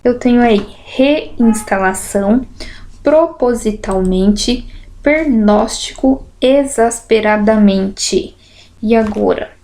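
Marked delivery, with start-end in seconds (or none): 0.8-8.4 slow, each word split into syllables; words read beat by beat. Shown as a demonstration. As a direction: sound out the words slowly. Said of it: "separação de sílaba".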